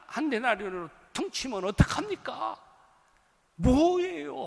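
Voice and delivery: loud, indignant protest from the workers; furious workers yelling at the master; angry shout. Retold or imitated. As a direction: shout the complaint as if cheated. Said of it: "나서 소리를 지른 거예요".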